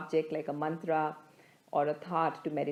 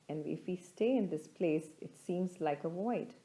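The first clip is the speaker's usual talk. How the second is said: calm, measured guidance with long pauses; unhurried meditation teacher, pausing between phrases; guided meditation; 3 dB quieter than usual. Acted. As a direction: lead listeners gently inward, leaving space after each thought.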